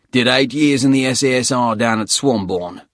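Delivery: proud Darwin bloke, rough voice; gruff Australian accent. Acted. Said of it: "rusty voice".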